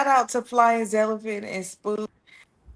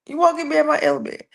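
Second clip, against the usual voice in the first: ELEMENT line repeated higher and quick; 5 semitones higher, much faster than usual. Real, not acted. Host steadying herself after glitches, higher and faster. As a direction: lift "You won't get me out my element" high and rush it.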